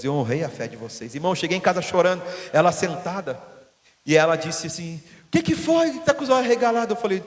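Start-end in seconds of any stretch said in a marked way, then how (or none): 5.3-7.0 high, startled voice of the wife, slightly louder; wife's surprised question. Retold or imitated. Wife surprised to see her husband come home crying, asking high and alarmed.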